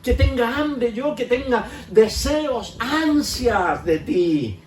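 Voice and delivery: slow, drawn-out plea to God; slow pleading prayer. Pretend. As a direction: stretch each request out, begging. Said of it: "prayer modelled for congregation". (súplica lenta y alargada)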